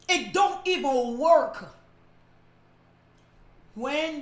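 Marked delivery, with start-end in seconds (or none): 0.1-1.7 slow, deliberate repeat of It don't even work; slower, measured restatement. Shown as a demonstration. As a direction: lay it out slowly, word by word.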